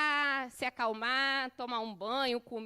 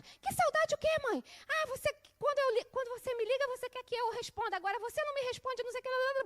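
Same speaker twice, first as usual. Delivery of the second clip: angry son; 11 semitones higher, faster than usual. Retold or imitated. Son snaps back on phone.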